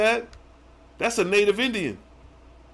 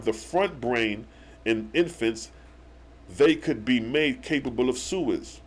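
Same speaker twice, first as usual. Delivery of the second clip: slow, measured reading aloud; scripture reading; 3 semitones lower than usual. Acted. Teacher reading a verse to viewers, measured scripture reading. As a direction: read it out deliberately, phrase by phrase.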